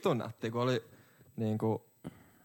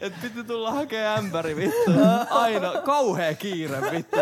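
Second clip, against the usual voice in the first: mock hurried complaint; 9 semitones higher than usual. Imitating the rushed pickers.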